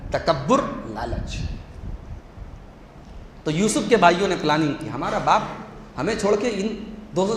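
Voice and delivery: ordinary talk, nothing marked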